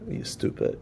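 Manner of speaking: mock insult under the breath; muttered insult.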